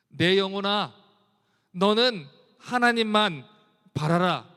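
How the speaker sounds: loud and slow, each word pressed; loud exhortation. Acted. Preacher loudly commands his soul to wait on God. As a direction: command your soul with full force. Soft then loud repeat.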